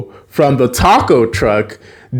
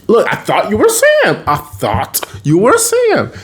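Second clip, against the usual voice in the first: higher, insistent mock protest; retold protesting excuse; 9 semitones higher than usual. Spencer explains the near miss to Carly, protesting. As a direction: plead the mistake in a raised voice.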